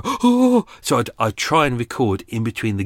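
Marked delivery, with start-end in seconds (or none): 0.0-0.7 exasperated oh. Retold or imitated. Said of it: "And I go".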